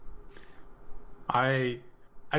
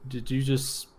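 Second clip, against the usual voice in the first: incredulous question. Acted. Traveler questions barkeep about dying, incredulously. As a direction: ask it back in alarmed disbelief.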